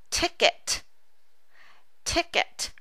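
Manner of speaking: "ticket" breathed out unvoiced, crisp T puffs; teacher whispering "ticket" to show the breath; whispered ticket. Shown as a demonstration. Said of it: "also a two-syllable word".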